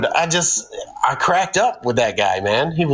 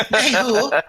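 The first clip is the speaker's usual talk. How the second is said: high laughing soldier's hoo-ah; a laughing mock-military cheer; hammed-up hoo-ah through a laugh; army hoo-ah; 11 semitones higher than usual. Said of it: "Give me a little hoo-ah".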